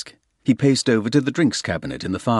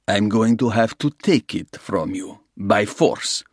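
a lightly voiced Russian gangster, smooth and sure; menacing Russian; 3 semitones higher than usual. Russian gangster offering Soames a deal, smooth menace. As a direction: lay out the terms like a patient crook. Russian lays out bare facts.

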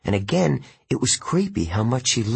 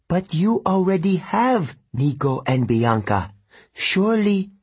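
high, incredulous Italian woman; Italian accent; 9 semitones higher than usual. Acted. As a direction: question him in a lilting Italian accent. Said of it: "She spoke with an Italian accent".

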